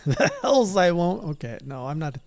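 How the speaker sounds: slow, loud defiant retort; mock-defiant archer. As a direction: spit it back defiantly. Voiced defiant reply.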